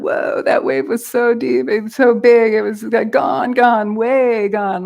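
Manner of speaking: hint of a stoked surfer marveling at a wave; Southern California surfer. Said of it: "like a Southern California surfer".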